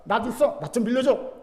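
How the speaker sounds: lightly imitated Gyeongsang directness; blunt Gyeongsang request. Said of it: "직설적으로 말한답니다". (살짝 높여 툭 던지는 경상도식 직설)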